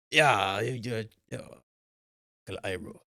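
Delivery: mock Italian accent that drifts toward an old man, fading out; a botched Italian accent trailing off; bad Italian accent. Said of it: "I go like Chinese old man when I try and do an Italian accent".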